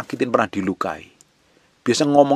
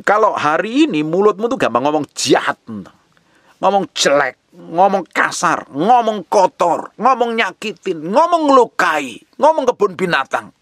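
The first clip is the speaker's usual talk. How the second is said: impassioned preaching; 9 semitones higher than usual. Real, not acted. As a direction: climb higher with each repeated rebuke. Preacher rebukes listeners in list.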